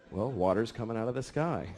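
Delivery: worn-out dad, low and quiet; weary dad. Retold or imitated. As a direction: answer like an exhausted father. Tired dad answering daughter.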